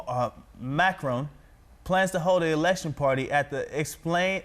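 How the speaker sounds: projected, evenly paced news anchor read. Shown as a demonstration. Takes a turn reading the story.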